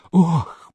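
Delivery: short mild groaning oh. A narrator's reading. Masolov groans at the sum, a mild moan. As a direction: let out a small moan. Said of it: "простонал Масолов".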